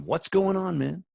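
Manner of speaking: high, loud, mock frantic "what's going on" into the phone; frantic call. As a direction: ham up a panicked viewer calling about the outage. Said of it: "I'm on the phone going".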